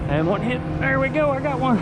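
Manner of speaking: high, loud thrilled shouting; excited. Real, not acted. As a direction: yell it out, fish on. Fish on the line.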